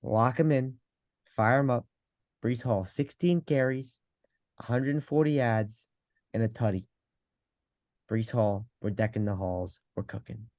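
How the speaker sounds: put-on New York Italian accent; Italian pizza guy voice. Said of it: "bad at the Italian accent".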